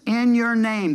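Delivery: "in your name" leaned on with a falling end; emphasized phrase. Retold or imitated. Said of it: "They emphasize that every time".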